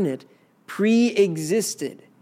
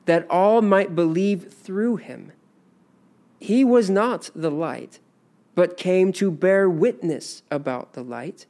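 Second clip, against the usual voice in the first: measured Bible reading, slightly raised; scripture reading. Acted. Teacher reading John's gospel aloud, measured.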